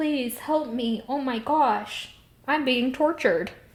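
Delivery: high, drawn-out, slow begging plea. Retelling a character's plea for help in a dream: mock pleading as Lanfear. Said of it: "She's like".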